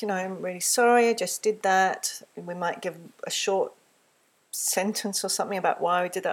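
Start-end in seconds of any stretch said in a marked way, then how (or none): 0.1-2.2 simple sincere apology. Shown as a demonstration. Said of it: "So it could be something like".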